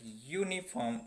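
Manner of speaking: "uniform" begun with a Y sound; consonant Y sound. Shown as a demonstration. Teacher showing students the sound that opens uniform, "uniform" with a Y sound. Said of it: "the pronunciation is yeah".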